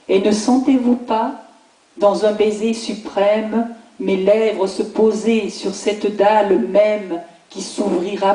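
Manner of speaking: solemn, measured reading of an elegy; poem recitation. Acted. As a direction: recite it as an earnest lament, pausing between phrases. (récitation solennelle d'un poème funèbre)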